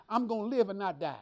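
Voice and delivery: firm declaration of faith; speaking with authority. Shown as a demonstration. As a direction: declare it with conviction. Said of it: "that's how you speak".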